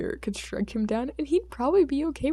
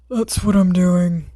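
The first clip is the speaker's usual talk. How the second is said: dry reply; 11 dB louder, slower than usual. Acted. Tired hero flat dry reply.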